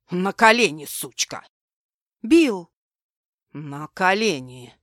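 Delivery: громкий злой приказ; приказать с угрозой; грубый приказ. Acted. Злодей приказывает. (злобный громкий приказ)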